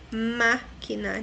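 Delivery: máquina slow, MÁ held apart from quina; stress on first syllable. Shown as a demonstration. Teacher repeating the example, máquina slowly stressed on má. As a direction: stretch the má of máquina. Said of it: "é a terceira sílaba".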